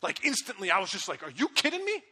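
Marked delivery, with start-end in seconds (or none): 1.2-2.0 high and loud, a toned-down rant; retold angry shout, much higher and louder; mock angry outburst. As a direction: act out the fight, but not at full heat. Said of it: "way meaner than the way I just said".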